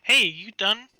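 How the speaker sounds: calling through a door. Acted.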